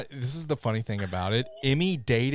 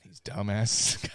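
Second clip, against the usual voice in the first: scornful foreign listeners; 4 semitones lower, 4 dB quieter, much slower than usual. Retold or imitated. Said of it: "everyone that's not in the States".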